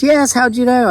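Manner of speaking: put-on very high, surprised Filipino accent; mimicked Filipino accent. Doctor surprised he guessed her city, mimicked Filipino accent. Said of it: "I'm doing my best to mimic it".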